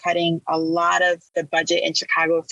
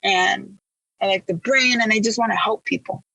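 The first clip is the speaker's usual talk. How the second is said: higher, teary, halting answer; tearful answer; 5 semitones higher than usual. Retold or imitated. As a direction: answer through retold sobs. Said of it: "and I'm sobbing".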